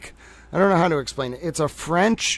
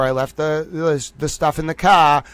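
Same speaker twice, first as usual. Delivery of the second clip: Boston accent. Shown as a demonstration. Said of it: "I have an accent, but I can say".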